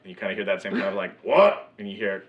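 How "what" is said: surprised what. Acted. Crew answers, surprised.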